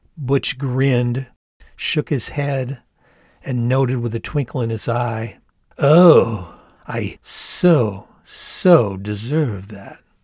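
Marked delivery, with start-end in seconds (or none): 5.8-10.0 very slow, drawn-out, shamelessly lewd, lascivious drawl. Butch replies to the narrator's apology; brazenly lascivious. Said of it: "in such a brazenly lascivious way".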